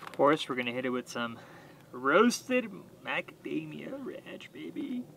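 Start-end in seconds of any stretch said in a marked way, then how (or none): 1.9-5.0 breathy hushed whisper over the food. Real, not acted. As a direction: whisper it like a secret treat. Seasoning the steak on camera.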